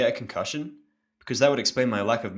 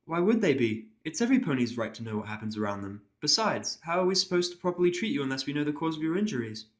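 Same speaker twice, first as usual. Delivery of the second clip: higher, polite nurse voice; a careful, apologetic pony nurse; 5 semitones higher than usual. Acted. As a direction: nurse explaining to her patient, in a higher polite voice.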